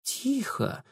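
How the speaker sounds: very soft, high word; softly spoken. A narrator's reading. Narrator hushing on tiho, soft. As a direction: let it fall to a hush. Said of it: "тихо, очень тихо спросила".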